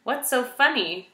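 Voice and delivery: high, indignant demand. A narrator's reading. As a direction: demand an answer. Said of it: "demanded Poppy".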